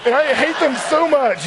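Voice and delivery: high, whiny imitation of tearful complaint; mock crying. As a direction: wail it like a wounded kid, played for laughs. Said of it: "I started crying. It was so embarrassing".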